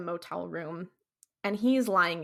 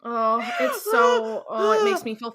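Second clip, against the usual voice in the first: anguished wail; 8 semitones higher than usual. Real, not acted. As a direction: cry it out, half shouting.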